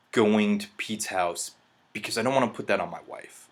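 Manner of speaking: usual speaking voice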